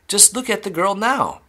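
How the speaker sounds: high-pitched exclamation; indignant cry. A narrator's reading. Mother rebuking Wonka over Violet, crying out high. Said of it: "cried Missus Beauregard".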